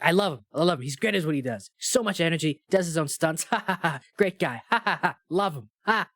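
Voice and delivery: forced chuckles between glowing praise; hammed-up nervous fan flattery; fake-cheerful Tom praise. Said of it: "They'd be like".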